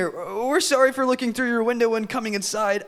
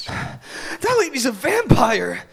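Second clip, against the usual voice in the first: exhausted; slower than usual. Acted.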